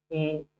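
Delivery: ए stretched out very slowly as a long vowel; drawn-out vowel. Shown as a demonstration. Teacher models the glide sound for students, drawn out slowly. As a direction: hold the vowel ए long and slow. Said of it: "जो sound आपको देखने को मिल रहा है ए".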